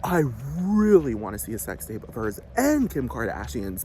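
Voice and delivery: hammed-up starstruck gushing; mock eager begging. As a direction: ham up a desperate plea for the tape. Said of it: "clamoring for it and begging people".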